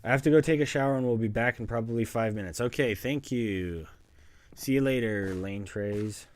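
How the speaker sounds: fast, loud and hurried; rushed. Real, not acted. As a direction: blurt it out on the way out. Rushing off to shower.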